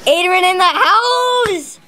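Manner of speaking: hype-man announcement. Acted. Brother announcing himself to the vlog camera, slow hype call. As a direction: announce yourself like a party entrance. Brother hypes his own arrival.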